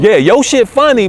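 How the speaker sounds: high laughing burst. Real, not acted. Comedian laughing while telling the host about crowds. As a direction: laugh it out loud.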